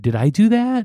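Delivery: high, questioning lilt; puzzled boy retold. Boy asking the priest after punching him, puzzled and high. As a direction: lift it high like a bewildered question. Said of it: "and then he said".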